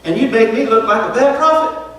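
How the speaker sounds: lightly acted frustrated complaint to God; mock angry Jonah. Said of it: "he's so mad at God, he says".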